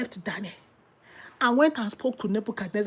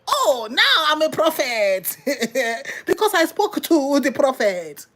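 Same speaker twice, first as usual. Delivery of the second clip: mock proud donkey; 3 semitones higher than usual. Preacher voicing the donkey claiming to be a prophet, mock boastful. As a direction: puff up like a self-important donkey, chuckling. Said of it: "would the donkey now say".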